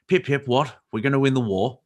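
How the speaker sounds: mock upper-crust British wartime accent; upper British English. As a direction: do a pip-pip upper-class British officer. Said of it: "full, full upper British English".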